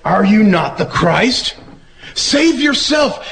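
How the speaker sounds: high, slow scornful dare; mocking jeer. Criminal on the cross jeering at Jesus, slow high mockery. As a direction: stretch the words to sneer. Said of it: "then one of the criminals started to mock Jesus".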